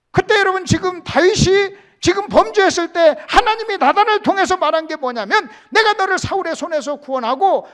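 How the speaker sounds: loud, high sermon cry; full-voiced preacher's shout; preaching at full force. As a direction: lift the congregation with a ringing call. Preaching peak.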